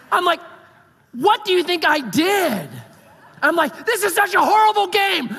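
high, loud laughing rant; laughing exasperation. Retold or imitated. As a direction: laugh through the frustration. Retelling frustrated outburst at game.

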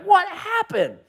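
high, laughing what-happened; laughing disbelief. Retold or imitated. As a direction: squeak it out in amused shock. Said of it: "I'm like".

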